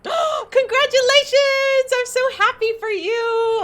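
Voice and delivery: high, loud, slow and teary; tearful happy squeal, drawn out; overjoyed, near tears. Real, not acted. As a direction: gush congratulations, nearly crying. Congratulating new dad on stream.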